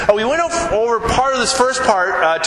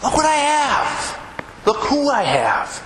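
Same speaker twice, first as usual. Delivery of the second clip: excited Christian; 6 semitones higher, slower than usual. Shown as a demonstration. Preacher acting out how a Christian should sound, joyful and high. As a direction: show off a treasure, overjoyed. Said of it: "We should be".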